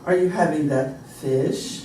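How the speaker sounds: slow, formal American question; measured, with a careful FISH. Shown as a demonstration. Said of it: "That's a little more formal".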